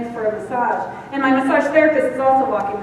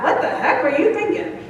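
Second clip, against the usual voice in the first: laughing self-scold; 4 semitones higher than usual. Retold or imitated. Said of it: "it sounds more like that".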